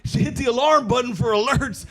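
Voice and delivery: hyped YouTuber. Retold or imitated. Young YouTuber opening a video, high sing-song hype. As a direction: oversell it like a young influencer. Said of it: "the first four minutes is always like".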